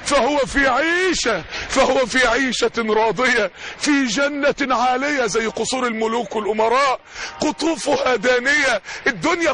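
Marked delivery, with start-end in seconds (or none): 0.0-5.3 slow, measured Quran recitation. Acted. Preacher reciting the verse to the crowd, slow and solemn. 7.4-8.8 slow, measured Quran recitation. Acted. Preacher reciting the verse to the crowd, slow and solemn.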